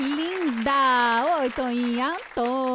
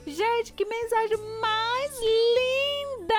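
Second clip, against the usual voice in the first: high, slow, thrilled outburst; rapturous, high-pitched delight; delighted exclamation; 9 semitones higher, slower than usual. Real, not acted. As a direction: gush over the lovely message. Host reacting to touching message.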